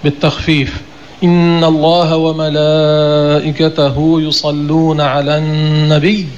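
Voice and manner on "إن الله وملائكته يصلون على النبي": slow recitation with النبي said with a doubled ي; Quran recitation. Shown as a demonstration. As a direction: recite slowly, stressing the shadda in النبي. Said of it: "لا يقال النبي بالتخفيف". (تلاوة بطيئة مع تشديد النبي)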